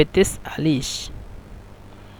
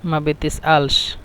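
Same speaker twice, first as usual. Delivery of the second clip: slow demo; slower than usual. Shown as a demonstration. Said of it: "আঞ্চলিক ভাষা হলো".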